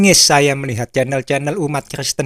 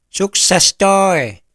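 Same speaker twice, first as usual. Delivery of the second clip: higher, louder acted cheer; triumphant devil; 6 semitones higher, 5 dB louder than usual. Devil reports success to fellow devils, triumphant call. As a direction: crow the success to your mates.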